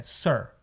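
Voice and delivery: "sir" said with a U sound, not I; som de U. Shown as a demonstration. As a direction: curl the R at the back of the throat in "sir". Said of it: "desenrolar ali na parte de trás da sua garganta". ("sir" com som de U, R na garganta)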